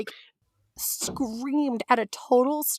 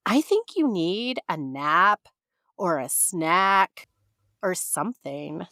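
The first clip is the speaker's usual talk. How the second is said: patronizing clerk; slower than usual. Retold or imitated.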